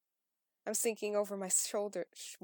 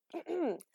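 throat clearing; 8 semitones higher, 5 dB louder than usual. Real, not acted. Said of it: "what is my voice?".

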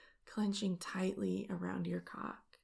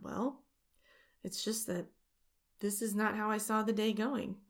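gleeful; 2 semitones higher, 4 dB louder than usual. Acted. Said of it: "gleefully respond".

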